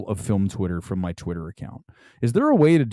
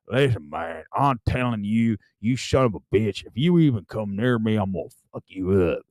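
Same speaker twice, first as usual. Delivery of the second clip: low Southern redneck accent; hammed-up white trash Southern accent; 3 semitones lower, 3 dB quieter than usual. Shown as a demonstration. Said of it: "if you're doing a white trash accent".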